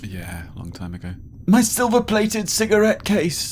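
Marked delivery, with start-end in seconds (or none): 1.5-3.5 high, slow theatrical wail; moaned lament. A narrator's reading. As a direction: moan it out, high and drawn out. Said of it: "the man moaned".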